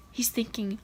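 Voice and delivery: soft whisper; hushed. Real, not acted. Narrating the creature's secret plan, softly whispered. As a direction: drop to a whisper. Hushed lead-in to the inner thought.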